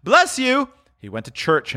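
high, happy thanks; Scrooge, grateful. Acted. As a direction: thank him in a high, glad voice.

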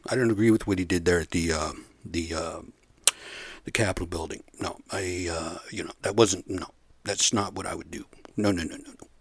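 stammering mock retreat; Ted Cruz backpedaling. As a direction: imitate a politician squirming out of it, trailing into hesitant denials. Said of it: "Now he's all backpedaling".

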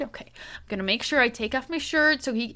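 eager prankster, rising as he plans; mock excitement. Co-host imagining the husband planning his prank, mock excitement. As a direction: build up with imitated giddy anticipation. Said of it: "He's, like, so excited".

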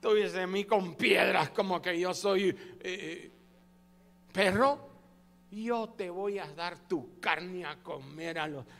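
lightly voiced brutish giant, slow; a hint of a dumb giant taunting; slow deep simple brute. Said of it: "¿Qué le dijo el gigante a Goliat?".

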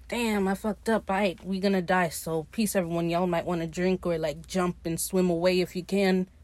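mildly downcast, resigned; retold sadness. Ed tells the crew they will die, mildly mock-sad. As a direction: lightly act out someone giving up. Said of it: "Ed gets all sad".

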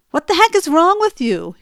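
hammed-up husband yelling; retold shout. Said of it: "he shouted in front of all the kids".

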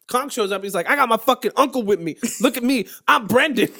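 a teasing hint of Brendan's bro voice; Brendan impression. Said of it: "This is my Brendan impression".

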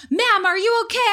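high-pitched mimicked check-in; imitated paramedic. Acted paramedics repeat their question.

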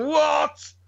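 high-pitched baffled retort; incredulous. Retold or imitated. Dad hearing his son's rhyming slang, incredulous. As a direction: blurt it in disbelief.

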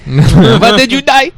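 high, slow laughing movie quote; drawn-out squeaky quote voice; Mr. Chow impression.

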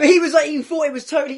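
laughing while talking. Real, not acted. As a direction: giggle through the words.

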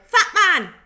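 high, loud call of fat man; mock yell. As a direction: bellow it across the factory floor, laughing. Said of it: "the supervisor would yell".

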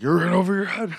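mock-menacing Fisk line, half-hearted; Kingpin voice. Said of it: "and he's like".

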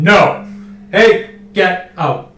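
a high mock shout of get out; mock yell. Clerk shouting a customer out of the store, mock yell. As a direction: yell a customer back out the door, hammed up.

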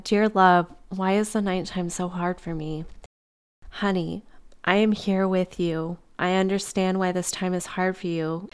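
gentle, reassuring read of a letter; reading a tender letter. Acted. Reading love's reply to her tired self, gently reassuring. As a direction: read it like love comforting you. Reads channeled letter aloud.

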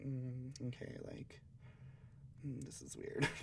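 soft, hesitant awkward aside; quietly edge out of the conversation; softly voiced discomfort, with pauses; retold awkward reaction.

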